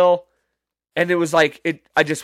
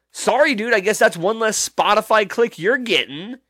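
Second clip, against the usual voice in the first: mock snark; 5 semitones higher than usual. Mock snarky retort to band.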